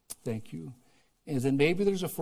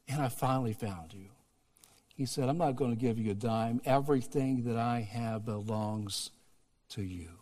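tender father; 3 dB quieter than usual. Retold or imitated. Father telling his son all is his, tender and soft. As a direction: hush it to a tender close.

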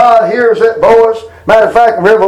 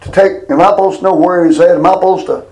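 low-key mock sarcastic questions; 3 semitones lower, faster than usual. Cain answers God about his brother, mildly sarcastic. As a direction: imitate an insolent comeback, understated. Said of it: "it's, uh, sarcasm".

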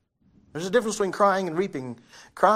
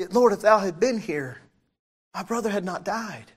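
firm, raised voice, face to face; confronting; 3 semitones higher, 3 dB louder than usual. Retold or imitated. Martha faces Jesus over her brother's death, confronting. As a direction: say it straight at him, pointedly. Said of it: "probably looked him in the face and said".

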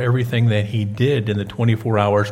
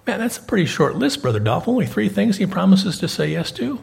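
higher-pitched mock disbelief; doubtful objection; 6 semitones higher than usual. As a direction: question it like a puzzled listener, rising high. Voices a doubting listener's objection.

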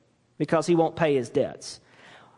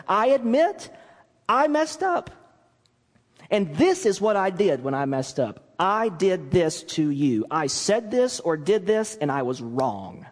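sincere admission. Shown as a demonstration. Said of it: "Say exactly what it is you did".

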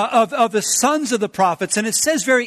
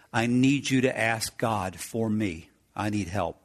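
hushed desperate plea; 10 semitones lower, 8 dB quieter than usual. Acted. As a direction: beg the priest almost under the breath. David pleading to the priest.

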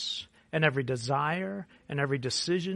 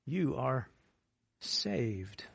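whispered saved; 2 semitones lower, 4 dB quieter, much slower than usual. Shown as a demonstration. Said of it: "whispered saved".

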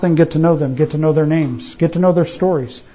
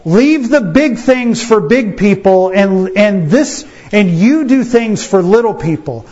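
higher, slow, talking down to little brother; mocking older brothers; 3 semitones higher, slower than usual. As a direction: brush him off like big brothers. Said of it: "They were like".

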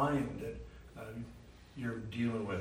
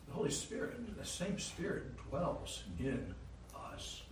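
softer, slowing down and fading to near silence; hushed and tender; 2 semitones higher, 6 dB quieter than usual. Real, not acted. Preacher telling brothers and sisters the Spirit dwells in us, soft and slow. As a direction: let it fall to a hush. Intimate point about the Spirit.

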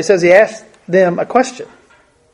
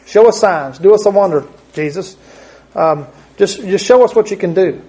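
mock demand; 2 semitones higher than usual. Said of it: "a faithless demand for miracles".

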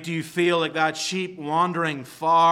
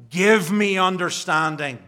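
crying out; 5 dB louder than usual. Retold or imitated. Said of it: "he cries before God".

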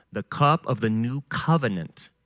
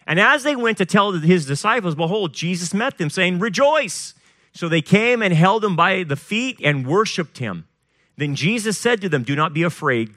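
raised-pitch, emphatic Bible reading; scripture proclamation; 5 semitones higher, 3 dB louder than usual. A narrator's reading. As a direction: preach the passage as you read it. Reads scripture aloud to congregation.

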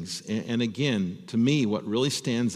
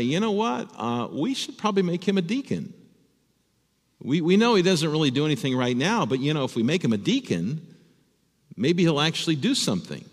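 higher-pitched, imagined church member's proposal; tentative suggestion; 5 semitones higher than usual. Acted. Congregation reasoning about an inactive man, tentative suggestion. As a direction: float a hopeful idea in a lightly acted, higher voice.

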